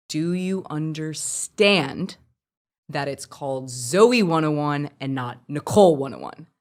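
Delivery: slow, measured stern reprimand. Retold or imitated. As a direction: imitate a stern boss, pausing after "understand". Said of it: "it was so stern".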